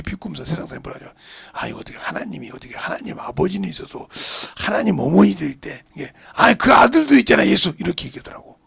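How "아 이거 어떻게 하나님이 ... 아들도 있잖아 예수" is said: mocking sarcasm. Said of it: "비꼬는 거예요".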